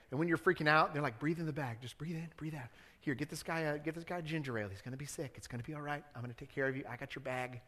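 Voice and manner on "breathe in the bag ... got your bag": soft, steady calming voice; soothing. Retold or imitated. Friend helping a panicking flyer breathe, soft and soothing. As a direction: talk someone through a panic.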